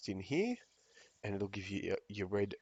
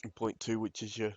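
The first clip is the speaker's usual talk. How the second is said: holding back hiccups mid-sentence; suppressing hiccups. Real, not acted. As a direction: talk through the hiccups. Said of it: "Sorry, I have the hiccups".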